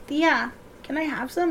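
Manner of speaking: put-on small pleading kid's ask; little niece begging her aunt for ice chips, sweet. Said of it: "and I'd be like".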